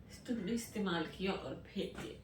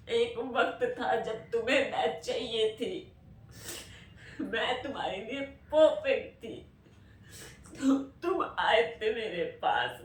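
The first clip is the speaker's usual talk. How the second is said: hurt, louder, voice pushed with emotion; anguished outburst; 3 dB louder than usual. Real, not acted. Telling the lover who left "I was perfect for you", anguished. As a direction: pour out the hurt, pushing louder.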